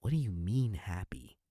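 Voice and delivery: loud, incredulous cry of the name; retold outburst. Peter protests to Strange, loud disbelieving cry. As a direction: belt it out in disbelief. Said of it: "Peter goes".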